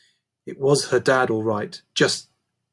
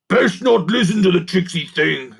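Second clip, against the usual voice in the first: goblin servant voice; 5 semitones higher, 5 dB louder than usual. A narrator's reading. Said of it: "added Guff".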